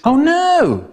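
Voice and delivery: high, wailed dismay; hammed-up horrified cry; mock horror. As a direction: wail it as the horrified mum. Mum reacts in horror.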